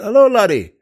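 imitating Ali's greeting. Imitating Ali greeting him.

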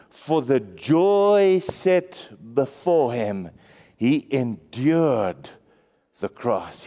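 slow, low, drawn-out verse; solemn scripture reading. Acted. Preacher reading Hebrews to the church, slow and low. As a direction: let the verse sink in slowly.

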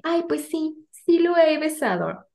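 high, slow, coy fake innocence; fake innocent. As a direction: play dumb, slow and sweet. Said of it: "mega actuando".

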